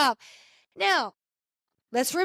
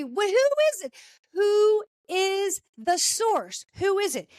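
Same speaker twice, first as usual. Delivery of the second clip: eager cheering; 6 semitones higher than usual. Real, not acted. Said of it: "cheering on Angela".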